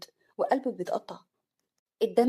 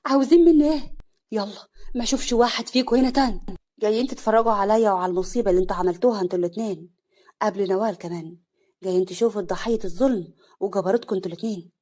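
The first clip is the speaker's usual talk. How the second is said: furious; 8 dB louder than usual. Acted. Wife screaming at husband and mother-in-law. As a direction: drive them out in rage. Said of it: "بكل عصبيه".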